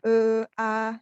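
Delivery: ragu-ragu mengisi jeda dengan "eh, A"; contoh filler. Shown as a demonstration. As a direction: tirukan orang yang tersendat bilang "eh, A". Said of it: "istilahnya itu filler". (suara filler "eh, A" yang agak keras)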